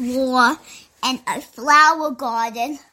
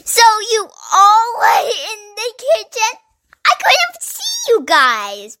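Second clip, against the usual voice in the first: surprised; 9 semitones higher, 4 dB louder than usual. Acted. Characters asking in surprise.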